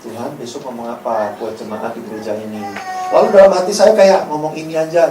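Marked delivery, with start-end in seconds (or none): 0.0-2.6 very soft, low-pitched prayer; hushed bedtime prayer; private prayer. Retold or imitated. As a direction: murmur a humble question to God. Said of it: "saya tuh selalu doa sama Tuhan".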